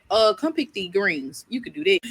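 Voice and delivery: put-on slow, drawn-out old grandma; lightly voiced grandma handing out a chore; grandma telling the guest to pick greens, slow and drawn out.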